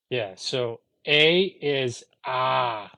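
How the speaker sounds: "ah" said long and open, slowly; Middle English vowels. Shown as a demonstration. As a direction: sound "ah" as an open broad ah. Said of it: "learn Middle English".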